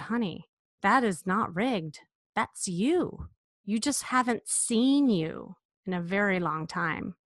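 reassuring. Retold or imitated. Comforting crying client in mirror.

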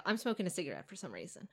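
fast unvoiced whisper; whispered aside. Aside during the mock show intro, whispered. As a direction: whisper it quickly off to the side.

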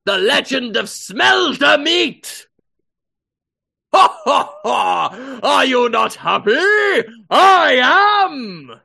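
loud, high mock bellow; hammy shouting character. Mocking the character's cheer, hammy yell. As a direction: shout it like a pompous fool.

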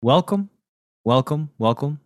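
booming sing song welcome. Acted. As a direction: draw out each welcome brightly. Host's booming podcast welcome.

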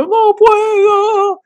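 high, slow whimpering refusal; whiny crybaby. Retold or imitated. Man refusing to bathe when ex insists, whiny. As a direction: drag it out like a sobbing child. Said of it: "y yo".

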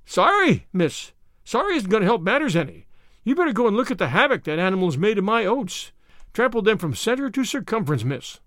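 storming in to complain, worked up; irate old farmer. Acted. Irate neighbour storms at Anne.

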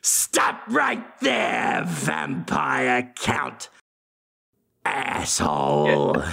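slow hammed-up hero challenge; mock heroic cry, slow and drawn out; heroic shout. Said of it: "It's me, Van Helsing".

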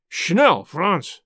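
urgent shout to a fleeing accomplice; crying out. Acted. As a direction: call out sharply in the dark. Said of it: "cried a voice".

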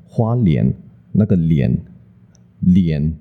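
莲 said slowly, tongue behind the front teeth; teacher leads the class in 莲. Shown as a demonstration. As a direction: model 莲 for the class to repeat. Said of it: "大家跟我念花莲".

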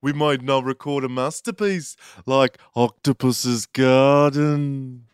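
hammed-up mock English; put-on English accent. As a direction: pronounce it grandly in an English accent. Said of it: "In an accent".

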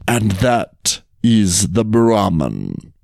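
slow, pointed, pausing phrases; laboured explanation. Acted. Tiger teaches the jackal who is who, slow and pointed. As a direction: spell it out with strained patience.

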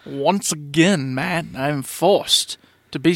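blocked nose, nasal and slow; stuffy nose. Real, not acted. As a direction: talk through a plugged nose. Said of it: "my normally nasally voice is even more nasally".

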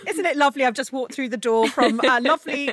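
high, lightly sugary greeting; sweet spouse voice. Retold or imitated. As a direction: play the doting partner. Voicing a sweet partner greeting.

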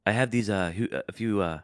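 halting, badly faked Dutch accent; attempted Dutch accent. Podcaster attempting it on request, faltering Dutch accent. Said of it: "please try to do the Dutch accent".

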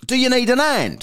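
high-pitched imitated woman; passing woman. Passing woman offering two stuck men a hand, imitated high voice. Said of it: "a woman went past".

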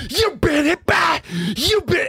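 very high, slow mock squeal of a singer; impression of a singer. The kid screaming into his face, a high mock squeal of a singer. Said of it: "He was screaming".

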